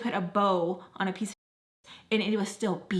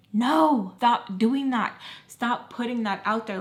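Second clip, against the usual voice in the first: firm loud scolding; 3 semitones higher, 5 dB louder than usual. Real, not acted. Scolding excuses.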